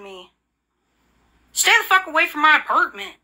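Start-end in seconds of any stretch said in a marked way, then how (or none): 1.5-3.2 angry. Real, not acted. Ranting at neighbours over mailbox.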